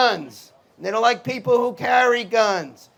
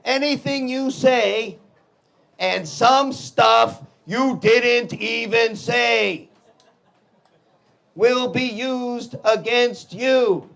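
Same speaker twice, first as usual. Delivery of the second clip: wry rewrite of the warning; slower than usual. Shown as a demonstration. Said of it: "kinda like this".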